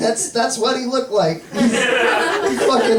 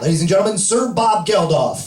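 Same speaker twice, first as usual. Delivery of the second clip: announcer voice; 4 semitones lower, faster than usual. Retold or imitated. Comic as host announcing Bob Geldof, emcee voice. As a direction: announce him grandly to the crowd. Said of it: "and then I would say".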